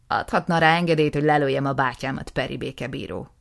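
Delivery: loud, indignant plea to the justice; angry younger brother. Acted. Nisim to the justice, loud and indignant.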